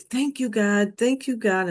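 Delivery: a touch of retold tearful gratitude; lightly relived crying thanks. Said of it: "I'm crying, and I'm sobbing".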